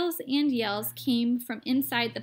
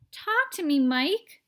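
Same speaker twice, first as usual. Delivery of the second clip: much higher, louder pleading; anxious cry; 5 semitones higher, 6 dB louder than usual. A narrator's reading. Mother pleading with her tiny son, frightened. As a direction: cry out to him in fear. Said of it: "cried Missus T V".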